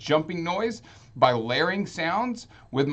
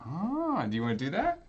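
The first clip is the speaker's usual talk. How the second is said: breathy whispered ah; whispering; 3 semitones higher, 5 dB quieter than usual. Real, not acted. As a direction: keep it hushed. Secret game name, hushed.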